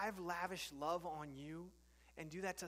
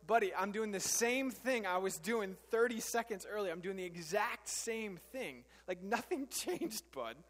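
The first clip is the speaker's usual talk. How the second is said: exasperated dad; 3 semitones higher, 6 dB louder than usual. Retold or imitated. Father exasperated at repeated question.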